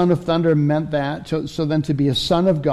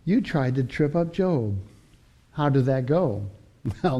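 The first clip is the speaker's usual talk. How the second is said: God taunting; 2 semitones higher than usual. Acted. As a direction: rub it in with a chuckle. God taunting Satan about Job.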